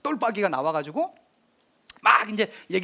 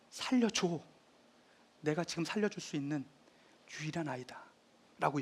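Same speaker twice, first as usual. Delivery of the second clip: 조용한 간청; 3 semitones lower, 10 dB quieter than usual. Retold or imitated. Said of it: "얘기를 해요".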